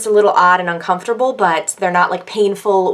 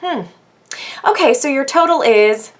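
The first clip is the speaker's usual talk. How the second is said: imitating the saleswoman; 7 semitones higher than usual. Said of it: "So she goes".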